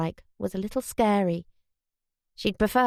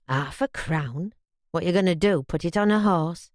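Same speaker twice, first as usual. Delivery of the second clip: hoarse scoff; 3 semitones lower than usual. Acted. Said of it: "He laughed hoarsely".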